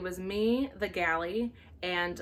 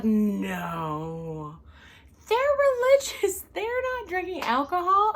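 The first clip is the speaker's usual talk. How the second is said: very high, louder naive protest; naive coworker; 8 semitones higher, 6 dB louder, much slower than usual. Retold or imitated. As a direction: insist they're innocent. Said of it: "she was like".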